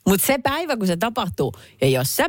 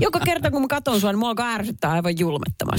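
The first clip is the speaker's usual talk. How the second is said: mock snooty complainer; 4 semitones higher than usual. Continues mock commenter voice.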